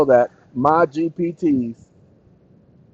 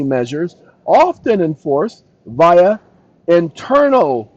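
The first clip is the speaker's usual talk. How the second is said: emphatic reading aloud. Real, not acted. Streamer reading a legal summary, emphatic reading. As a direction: read out each term deliberately, punching it. Reads the chatbot's answer.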